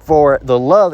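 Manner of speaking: slow, solemn Bible reading; measured reading of scripture. Acted. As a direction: read the verse with weight. Reads scripture aloud.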